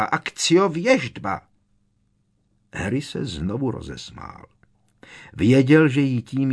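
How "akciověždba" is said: drawn-out desperate cry. A narrator's reading. Bellatrix summoning again.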